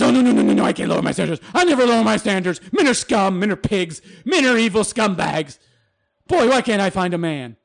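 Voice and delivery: a touch of a huffy woman insisting; mock woman. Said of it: "try lowering your standards".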